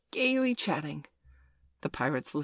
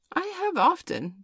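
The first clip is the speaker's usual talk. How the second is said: high timid sidekick voice; Smee voice; 12 semitones higher, 4 dB louder than usual. A narrator's reading. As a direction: pitch it up as the sidekick. Smee's high voice.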